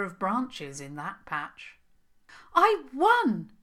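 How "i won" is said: high, loud victorious shout; calling down in triumph. Acted. Princess shouting her win down to the Troll King. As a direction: yell it down from the treetop, triumphant. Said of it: "Princess Isabel called down".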